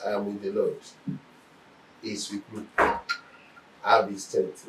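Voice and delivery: low, hushed self-soothing; quietly steady yourself, voice dropped low; calm self-reassurance. Acted. Preacher showing believers how to tell themselves to relax, calm and hushed. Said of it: "just tell yourself".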